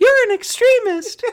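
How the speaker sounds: shrill character voice, very high and loud. Taking a turn repeating the quote after another host, imitating in a higher voice. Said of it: "Go a little bit higher".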